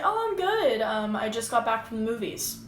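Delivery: a friendly passenger answering keenly; chatty passenger. Pretend. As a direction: greet the driver like you want to chat. Role-playing a chatty passenger.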